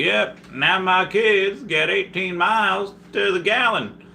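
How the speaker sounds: a light take on a dopey cartoon fairy; Cosmo impression. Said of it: "Cosmo from, from Fairly Odd Parents".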